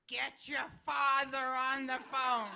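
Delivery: panicked mother shouting at her daughter; frantic order. Retold or imitated. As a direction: bark the order down the phone, half laughing.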